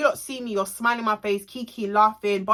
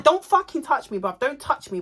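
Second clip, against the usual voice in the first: retold angry protest, raised pitch; 5 semitones higher than usual. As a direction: warn him off, acting out the row. Retold row, he grabs her.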